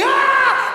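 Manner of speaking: put-on high loud child scream. Three-year-old on the beach screaming from the sting. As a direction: shriek out like the stung boy.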